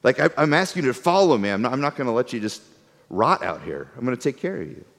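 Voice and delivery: calm them down, soft and sure; reassuring God. Retold or imitated. God reassuring grumbling people, softly. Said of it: "God's like".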